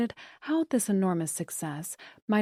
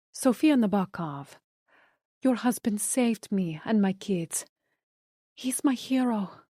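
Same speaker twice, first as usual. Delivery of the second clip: put-on Spanish accent; 2 semitones higher than usual. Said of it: "with a thick Spanish accent".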